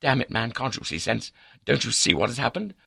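high-pitched, exasperated tirade; white with anger. A narrator's reading. Accused baronet explaining himself to his confidant, angry. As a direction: rant in outraged indignation. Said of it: "white with anger".

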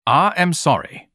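high, disdainful pompous man; haughty snort. A narrator's reading. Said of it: "Ignatius snorted".

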